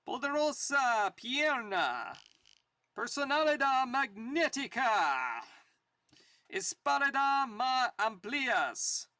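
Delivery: slow, drawn-out mock-grand advertisement; hammed-up retro bodybuilding pitch; vintage ad read. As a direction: sell the muscle course like an old radio spot. Reads old bodybuilding ad aloud.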